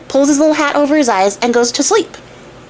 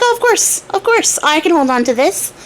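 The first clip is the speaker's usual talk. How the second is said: boastful tailor; 5 semitones higher than usual. Retold or imitated. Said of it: "And he's like".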